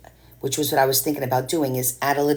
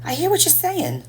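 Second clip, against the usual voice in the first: much higher put-on New York twang; mock New York accent. Copying how she talks with New Yorkers, mock New York accent. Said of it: "I start talking like this with them".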